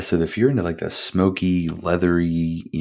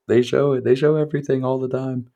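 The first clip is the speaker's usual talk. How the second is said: insistent emphasis; 8 semitones higher than usual. Real, not acted. Stressing the film's gore.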